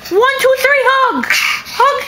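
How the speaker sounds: excited calling. Real, not acted. Directing kids at play.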